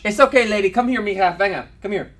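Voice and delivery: coaxing call. Real, not acted. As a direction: coax her over to you. Coaxing Dinah to come over.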